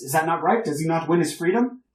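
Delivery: put-on older gentleman greeting the heroes, loud and hearty; boisterous older gentleman. Old gentleman asks Faustus.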